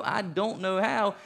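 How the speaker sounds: put-on a terrified boy who can't follow her; panicked kid. Boy panics at grandmother's warning of hell, high and frantic. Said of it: "And I continue to go".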